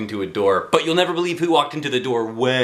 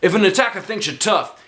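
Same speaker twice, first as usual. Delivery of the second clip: raised, eager karate teacher; 8 semitones higher, 3 dB louder than usual. Acted. Karate teacher lecturing kids, higher and brighter.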